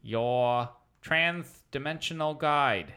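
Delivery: lightly lisped host voice; a hint of a lisp, pompous; lisping interdimensional guide; Murray's lisp. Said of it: "It's really hard to do a lisp for this long".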